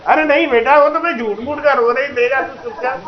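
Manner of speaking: a mother brushing off her fake tears; a hint of an old mother's voice; mother's reply. Mother voiced pretending to cry.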